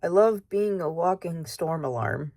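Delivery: slow, dry sarcasm; sarcastic. Acted. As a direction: say it with mock cheer. Ironic complaint about pain.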